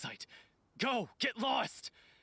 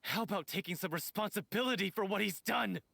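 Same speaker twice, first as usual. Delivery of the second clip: worked-up indignation. Acted. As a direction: refuse to calm down, accusing. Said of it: "He's worked up".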